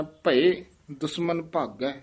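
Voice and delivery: ਭਏ said quickly with sihari, not with laan; ਭਏ short and quick, bhie, not bhae; quick ਭਏ with sihari vowel; correct pronunciation of ਭਏ. Shown as a demonstration. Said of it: "ਭਏ ਲਾਂ ਨਾਲ ਨਹੀਂ ਉਚਾਰਨ ਕਰਨਾ, ਛੇਤੀ ਬੋਲ ਦੇਣਾ".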